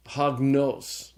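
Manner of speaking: hagnos with stress on final NOS; stress on accented syllable. Shown as a demonstration. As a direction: say "hagnos" as hag-NOS, deliberately. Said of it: "And then there's the circumflex".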